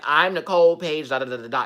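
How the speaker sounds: a loud mock self-introduction; hammed-up grand entrance; imitating her intro. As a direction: announce yourself like a celebrity. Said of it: "she made a statement like".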